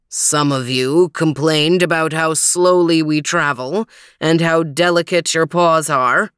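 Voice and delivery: single out the complainer with mild scorn; lightly voiced stern leader, reproachful. Voices Overton, glaring at Theo.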